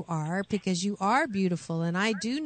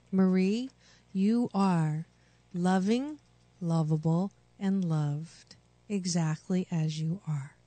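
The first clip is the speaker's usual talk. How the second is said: tender affirmation. Shown as a demonstration. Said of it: "Repeat after me".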